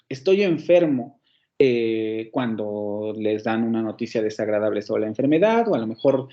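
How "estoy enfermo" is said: slow, stressed "Estoy enfermo" as bad news lands; exclamation. Shown as a demonstration. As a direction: exclaim it slowly, as if just told the diagnosis. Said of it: "O a lo mejor exclamativos". (exclamación lenta al recibir una mala noticia)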